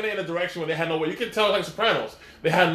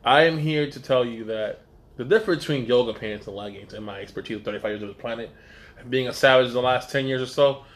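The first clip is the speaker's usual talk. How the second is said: mock expert persona; 3 semitones lower than usual. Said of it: "can I jump back in and Doctor Doctor J".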